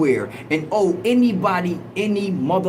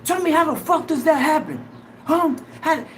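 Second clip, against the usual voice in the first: outraged shout; 9 semitones higher than usual. Real, not acted. Teller's own outraged outburst.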